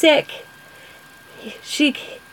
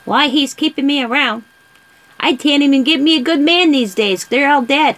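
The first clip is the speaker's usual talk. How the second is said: put-on old lady voice; 4 semitones higher than usual. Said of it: "That's how she talked".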